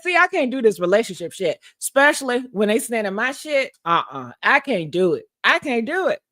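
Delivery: hammed-up complaint, laughing; laughing rant. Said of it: "I said".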